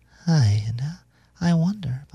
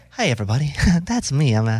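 put-on weird narrator voice. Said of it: "What is the voice?".

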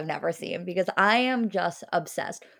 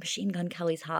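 hushed whisper, much quieter; 2 semitones lower, 8 dB quieter than usual. Describing talking at home so her mom won't hear, whispering. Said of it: "I'm so aware of being home that I'm like whispering".

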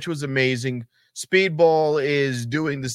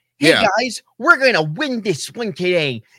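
mock childlike voice, higher and louder; 8 semitones higher, 4 dB louder than usual. Imitating a wrestler cutting a promo, mock childlike promo voice. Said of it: "he sounds like he's twelve".

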